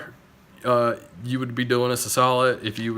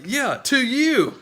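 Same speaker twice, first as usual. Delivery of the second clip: mock movie voice; 10 semitones higher, slower than usual. Mocking a movie line.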